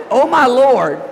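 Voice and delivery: loud lifted praise cry. Shown as a demonstration. Preacher shows the congregation the praise meaning, loud and bright. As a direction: lift it up as worship. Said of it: "is supposed to be praised".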